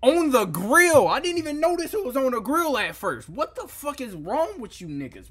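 high, loud, outraged yell; stretched-out shout of disbelief. Real, not acted. Outraged at frying on the grill.

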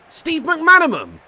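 high, slow, drawn-out disbelief, pitch way up; can't believe who's on the pitch; stunned disbelief. Real, not acted. Streamer shocked to spot a player in the game, disbelieving.

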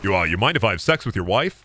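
lightly voiced, low casual dog character; Brian Griffin. Brian asking Peter about his wife, low and casual. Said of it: "Don't do a good Brian".

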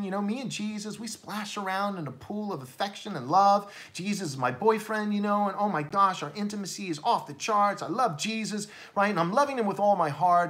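lampoon a smitten believer, lightly; mock gushing heart Christian. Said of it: "And so people say".

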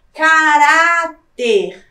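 "caráter" loud, with RÁ stretched very long; as if calling out. Shown as a demonstration. Teacher testing for the tonic syllable, loud long RÁ in "caráter". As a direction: shout out "caráter" slowly, holding the middle syllable. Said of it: "Imagine que você está gritando a palavra".

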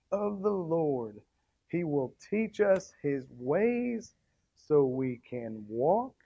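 slow recited verse; verse recitation. Shown as a demonstration. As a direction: recite it slowly and clearly. Reciting memory verse slowly.

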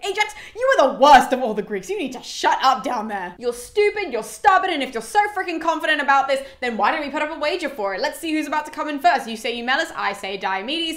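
hammed-up spectator bickering; snapping back. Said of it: "just snaps back at him".

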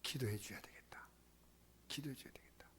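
very soft, half-whispered musing; hushed inner resolve. Acted. Preacher musing on absent church members, in a hushed murmur. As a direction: murmur it as a thought to yourself.

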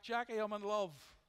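joyful called-out greeting; retold shout back. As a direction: call it out happily to a friend across the store. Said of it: "I shouts back".

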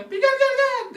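loud, high insistent yelling; shouted summons. Retold or imitated. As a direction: holler for grandma to come over. Acted shouted summons to grandmother. (ısrarla bağırarak çağırma)

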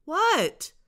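high, loud reply; calling back. Acted. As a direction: shout back.

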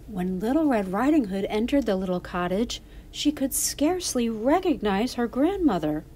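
put-on lively children's storyteller; story narration. A narrator's reading. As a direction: read it to young listeners as a story.

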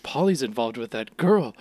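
playfully imitating gossips with a gasp; mock-shocked busybody; scandalized gossip. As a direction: act out breathless love-triangle speculation. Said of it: "so convinced that there's a love triangle".

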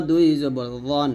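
রন said thick and full, like রোন; র মোটা করে, thick রন; heavy র. Shown as a demonstration. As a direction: give রন a heavy, full-mouth র. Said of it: "মোটা হবে, র".

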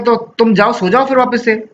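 a light hint of a concerned father; father's voice. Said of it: "तो उसका father बोलता है". (बेटे को सोने भेजते पिता की हल्की सी आवाज़)

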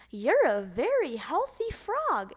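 doctor's voice. A narrator's reading. Doctor praises Froggy kindly.

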